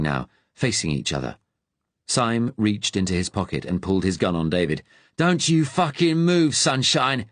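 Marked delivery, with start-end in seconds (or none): 5.2-7.3 fierce Cockney. A narrator's reading. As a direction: snarl it in broad Cockney, slow and hard. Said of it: "he said fiercely, his accent suddenly broad Cockney".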